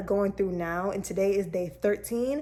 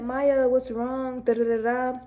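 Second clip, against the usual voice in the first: drawn-out, slightly raised quote of a friend; lightly voiced concerned friend; 4 semitones higher, 4 dB louder, slower than usual. Friend at next desk asks crying coworker, mock concern. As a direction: imitate a friend asking, stretched out slowly.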